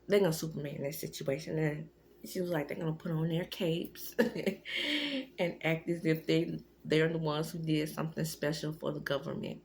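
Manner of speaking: words slurred around retainers; talking with retainers in. Real, not acted. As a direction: speak around a mouthful of retainer. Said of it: "I'm talking funny 'cause I have my retainers in".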